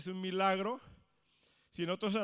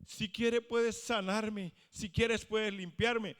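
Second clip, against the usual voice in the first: slow pleading; 6 semitones higher, 3 dB louder, slower than usual. Acted. Sick man begging Jesus to heal.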